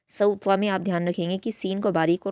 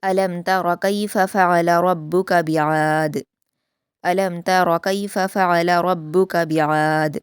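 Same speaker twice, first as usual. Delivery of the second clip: slow, melodic Quranic recitation; measured Quran recitation; tajweed recitation; 4 dB louder, slower than usual. Shown as a demonstration. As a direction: recite it slowly and carefully as a model for students. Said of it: "अलम तरा में रा को पुर पढ़ा जाएगा".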